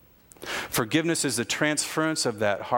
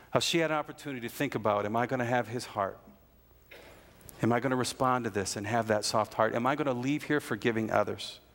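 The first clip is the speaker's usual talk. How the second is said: quiet reflection; 4 dB quieter than usual. Real, not acted. Reflective altar-call close.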